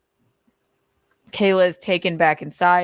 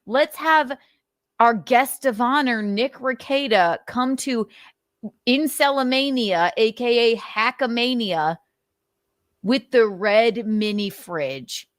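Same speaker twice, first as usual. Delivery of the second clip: mock announcer; 4 semitones higher than usual. Mock announcing guest of honor.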